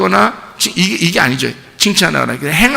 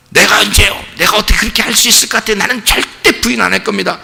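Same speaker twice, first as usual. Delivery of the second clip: indignant denial; 5 semitones higher than usual. Retold or imitated. Peter denying Jesus' prophecy.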